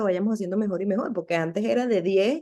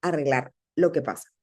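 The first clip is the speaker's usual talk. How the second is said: lower, soothing retold voice; calm reassurance; 5 semitones lower than usual. The Lord telling her to relax, calm reassurance. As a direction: settle them down, low and easy. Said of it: "el Señor me dice".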